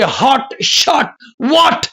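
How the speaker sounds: HOT, SHOT, WHAT each drawn out as a separate rhyme; rhyming stress. Shown as a demonstration. Teacher shows students how poetry rhymes, rhyming stress. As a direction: chime out हॉट, शॉट, व्हाट slowly, one by one. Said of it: "एक तरह से rhyming कर दे".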